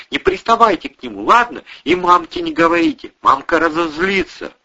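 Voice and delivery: a scared little sister begging the men; little girl's plea. Acted. Little Ksyusha begs them not to tell her mum, high pleading child's voice.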